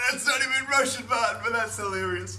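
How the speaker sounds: high, loud amused outburst; excited exclamation. Retold or imitated. Retelling a reaction to his backwards Russian, excited and loud.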